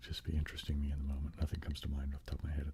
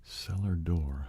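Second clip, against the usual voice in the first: drawn-out phrase; 5 dB louder, much slower than usual. Shown as a demonstration. ASMR host savouring a famous pretty phrase, slowly. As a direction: say cellar door very slowly, savouring it. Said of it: "ASMR trigger phrase".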